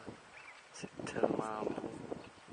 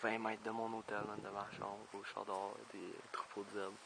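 hushed voice; 8 dB quieter than usual. Real, not acted. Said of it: "je peux pas parler fort".

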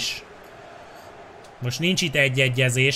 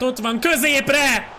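excited commentary call; 11 semitones higher, 4 dB louder, slower than usual. Real, not acted. Cross into the box.

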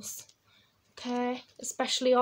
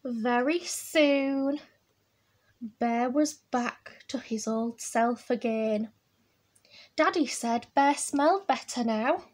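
picture-book storytelling. A narrator's reading. Reading Bear's recovery to children, measured storytelling. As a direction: stretch the first phrase, then settle into telling.

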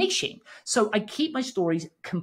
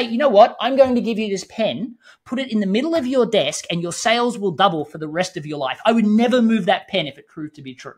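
oversell it like a huckster; loud sales pitch; 3 semitones higher, 6 dB louder than usual. Retold or imitated. Mock pitch with magic pen.

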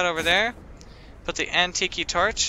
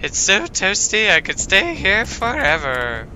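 lightly voiced friendly letter writer. Player reading Sugar Plumps' letter aloud, lightly in character. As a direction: read the pen pal's letter in her voice.

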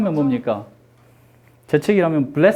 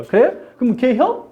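higher, quick Chungcheong questions; Chungcheong dialect; 5 semitones higher than usual. Retold or imitated. Imitating acquaintance inviting teacher to eat, Chungcheong dialect. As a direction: fire back a short Chungcheong question. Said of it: "충청도 분 정말 말 빨라요".

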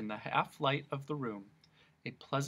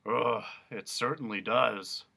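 gruff dog voice. Acted. Dog voice in story.

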